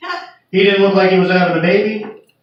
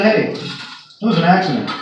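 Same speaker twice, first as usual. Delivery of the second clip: deadpan relay. Retold or imitated. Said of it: "I got on the radio and I said".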